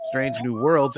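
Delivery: put-on mild southern accent. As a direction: keep the southern accent going, lightly. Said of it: "In my southern accent".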